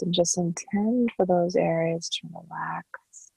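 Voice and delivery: calm, unhurried meditation voice with long pauses; guided meditation. Acted. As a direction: guide the listener gently into relaxation, softening at phrase ends. Leads a body scan meditation.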